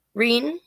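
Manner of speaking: "Reen?" with a long ee vowel, rising and unsure; trying out a pronunciation. Shown as a demonstration. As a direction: check "Reen?" with ee, not ay, as a question. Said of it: "Hopefully I got that right".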